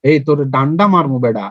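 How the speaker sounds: low, rough-talking warning, lightly acted; mildly angry threat. Shown as a demonstration. Teacher pretends to threaten a lad, mildly angry. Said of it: "রাগী রাগী টাইপের কণ্ঠ".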